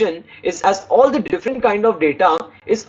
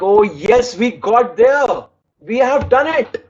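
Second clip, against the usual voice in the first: 1 triumphant; 3 semitones higher, slower than usual. Shown as a demonstration. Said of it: "Add a little emphasis like".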